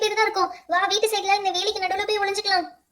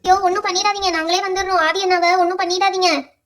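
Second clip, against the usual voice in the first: loud, alarmed plea; acted panic, pleading with a ghost; urgent pleading; 5 dB louder than usual. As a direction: beg hard for him to be spared. Friends plead for the brother.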